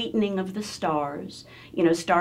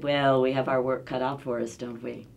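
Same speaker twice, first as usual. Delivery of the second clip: speech teacher; 5 semitones lower than usual. Retold or imitated. Speech teacher responds to a hopeful student, teacher role. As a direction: lightly voice a teacher, lower. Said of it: "She said".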